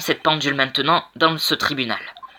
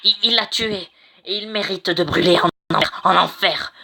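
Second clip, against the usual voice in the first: raised, higher voice, demanding he burn in hell; angry accusation; 3 semitones higher than usual. Acted. Furious witness condemning the accused before the judge. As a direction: hurl the accusation at the court.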